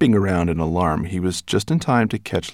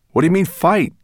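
put-on boy voice; 11 semitones higher, 5 dB louder than usual. Ben character voice.

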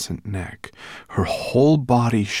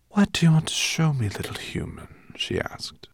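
high, airy serpent voice; curious sea serpent; 8 semitones higher than usual. A narrator's reading. The serpent questions the little human, high and curious.

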